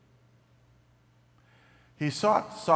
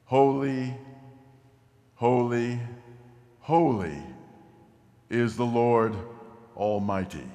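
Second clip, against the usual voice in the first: seraphim calling out. Acted. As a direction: call each holy out, with space between. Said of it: "they were calling back and forth".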